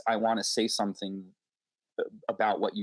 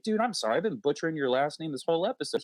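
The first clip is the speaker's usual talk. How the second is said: higher, sheepish sorry; embarrassed apology; 7 semitones higher than usual. Retold or imitated. Host apologizing to the guest for the butchered name, sheepish. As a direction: own up with a cringe.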